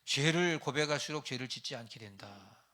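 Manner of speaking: loud, slow, weighty proclamation; emphatic preaching. Real, not acted. Preacher to congregation, loud slow proclamation. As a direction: hammer the point home slowly. Preacher stresses key sermon line.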